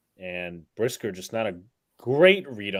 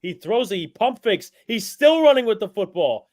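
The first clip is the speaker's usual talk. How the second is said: excited play-by-play; 11 semitones higher, 8 dB louder than usual. Real, not acted. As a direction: voice climbing higher and louder. Wild scramble, live call.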